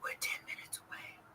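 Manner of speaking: barely audible, very quiet whisper. Retelling a call from high school juniors on a train: imitating a whisper. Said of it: "why are you whispering?".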